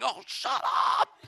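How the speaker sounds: slow, laughing whispered hush; embarrassed hush. Retold or imitated. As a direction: hiss it under your breath, mortified. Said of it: "this poor mother going".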